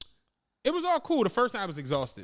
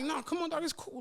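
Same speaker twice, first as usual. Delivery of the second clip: higher, softer wheedle; casual coaxing; 9 semitones higher, 6 dB quieter than usual. Retold or imitated. Friend coaxing him to take the car, soft casual persuasion. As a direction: imitate a friend softly talking someone round.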